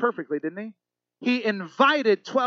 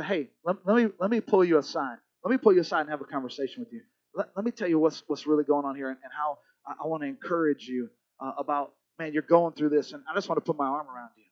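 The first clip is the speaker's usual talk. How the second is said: gentle encouragement; 3 semitones lower than usual. Retold or imitated. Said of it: "calm and quiet voice".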